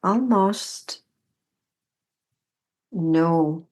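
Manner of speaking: unhurried guidance with long pauses between phrases; guided meditation. Real, not acted. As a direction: guide the body gently, leaving room to feel each step. Leads a standing meditation.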